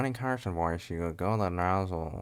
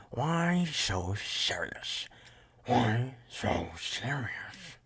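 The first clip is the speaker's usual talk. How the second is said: slow, whispery menace, higher pitched; Joker; 4 semitones higher, much slower than usual. Acted. Villain retelling his father's knife threat, slow creepy whisper. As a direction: draw each word out in a creepy rasped whisper. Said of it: "Joker memes ... he said".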